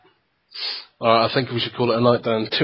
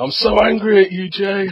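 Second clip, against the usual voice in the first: mock furious; 8 semitones higher, 3 dB louder than usual.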